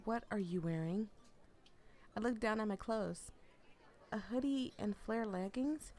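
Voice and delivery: lively read-aloud of a novel; story narration. A narrator's reading. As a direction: read the story to your viewers.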